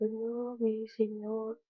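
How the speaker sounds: slow, drawn-out lament, lightly acted; mock weeping. Mary Magdalene weeping at the empty tomb, mildly acted lament. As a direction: imitate a grieving woman, words stretched. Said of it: "María Magdalena estaba llorando".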